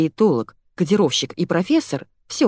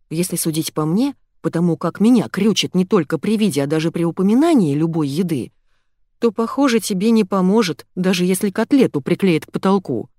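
plain reading voice

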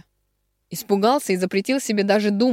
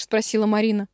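usual speaking voice

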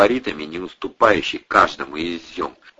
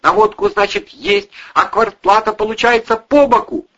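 higher, loud nagging woman's voice; angry housewife berating drunk tenants, higher; scolding landlady; 14 semitones higher, 7 dB louder than usual. A narrator's reading. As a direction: tear into the lazy lodgers. Irina finishes scolding.

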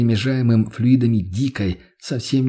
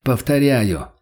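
stony voice; slower than usual. Acted. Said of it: "каменным голосом".

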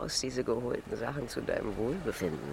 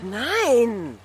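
loud, high outburst of no; shouted denial, pitch leaping up; sharp shout; 9 semitones higher, 12 dB louder than usual. Acted. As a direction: burst out in protest. Sudden refusal in lovers' argument.

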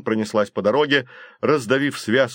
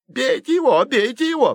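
high, louder cry; scared middle brother urging the fight; high urgent shouting; 13 semitones higher, 3 dB louder than usual. A narrator's reading. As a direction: keep yelling for his brothers to hit him. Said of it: "повторял средний Флинт".

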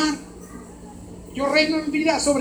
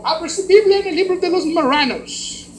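a hint of an earnest gringo preacher; lightly mock the gringo announcing the text; 5 semitones higher, 3 dB louder than usual. Gringo preacher announcing the book to church, lightly mocked. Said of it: "aquel se paró y dijo".

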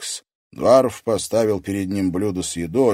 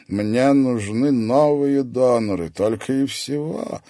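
grinning; 6 semitones higher, 5 dB louder, slower than usual. A narrator's reading. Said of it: "осклабился".

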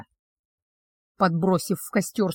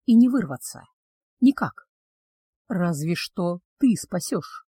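cursed betrothed, wistful; 3 semitones lower than usual. Acted. Betrothed confesses his curse to the witch, low and wistful.

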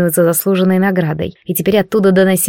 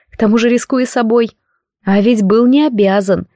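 ordinary delivery

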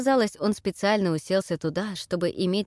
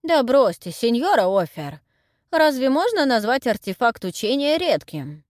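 arguing; 5 semitones higher, 6 dB louder than usual. A narrator's reading. Historian argues with Deborah.

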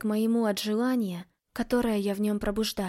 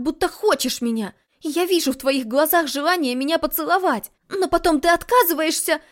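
higher, louder frustrated rant; angry outburst; 6 semitones higher, 6 dB louder than usual. Acted. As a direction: let the anger spill out at him. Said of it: "Разгневанная".

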